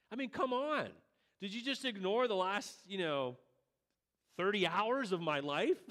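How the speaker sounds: half-mocking indignation; exasperated Jesus.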